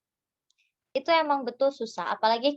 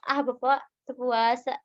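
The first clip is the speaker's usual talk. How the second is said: light teasing remark, less raised in pitch; joking tease. Shown as a demonstration. Stall keeper joking with an older customer, light tease. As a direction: tease him gently, as a joke. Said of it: "kedua kayak bari diheureuyan gitu si bapaknya".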